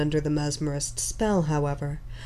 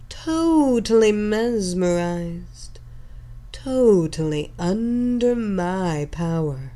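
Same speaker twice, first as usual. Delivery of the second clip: sultry hypnotic voice. Acted. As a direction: pull them under with every word. Hypnotist continues commands.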